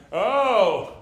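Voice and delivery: fake scared. Jogger teasing a tiny Doberman, fake scared. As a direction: tease the little dog with a fake fright. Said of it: "like, a fake".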